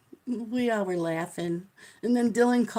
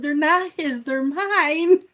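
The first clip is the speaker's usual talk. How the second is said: higher, louder comeback: they're mine; indignant retort; 7 semitones higher, 7 dB louder, slower than usual. Retold or imitated. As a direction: set the clerks straight, loudly. Retorting to bank clerks.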